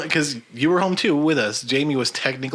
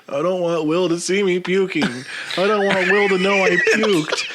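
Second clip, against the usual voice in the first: higher, hammed-up wail; mock drunken yelling; 5 semitones higher than usual. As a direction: imitate a friend yelling into the toilet. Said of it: "he was yelling it before".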